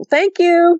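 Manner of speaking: high, lifted thank-you; high-pitched grateful call. Retold or imitated. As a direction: call your thanks up into the trees. Calling thanks to creatures in woods.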